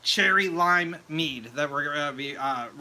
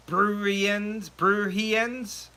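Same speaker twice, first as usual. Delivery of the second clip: puzzled reading; 3 semitones higher, much slower than usual. Real, not acted. Reading unfamiliar viewer word.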